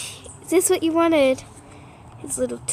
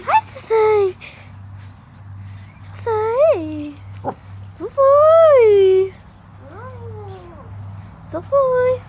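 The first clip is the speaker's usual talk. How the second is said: calling out; 5 semitones higher, slower than usual. Real, not acted. Calling the dog over.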